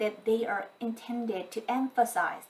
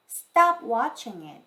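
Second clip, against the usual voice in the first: firm command; 6 dB louder, slower than usual. Shown as a demonstration. Translation of mother's scolding.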